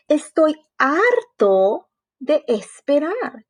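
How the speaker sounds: slow drawn-out complaint; fed-up whine. Acted. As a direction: stretch it out, sick of waiting. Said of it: "chilló Froggy". (queja lenta y arrastrada de harto)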